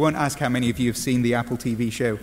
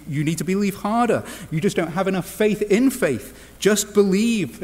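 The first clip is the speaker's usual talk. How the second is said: higher-pitched, mock-earnest urging; mock exhortation; 5 semitones higher than usual. Preacher parodies advice to those struggling at Christmas, mock exhortation. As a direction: push it as hollow advice, pitched up.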